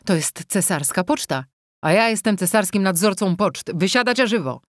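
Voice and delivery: barked order to get out, hurried; urging shout. Acted. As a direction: hurry them out of the coach. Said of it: "krzyknął ponaglająco".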